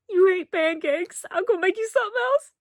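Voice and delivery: a hint of a kind, eager country boy; gentle Dale. Fan quoting Dale offering other breakfast, lightly voiced.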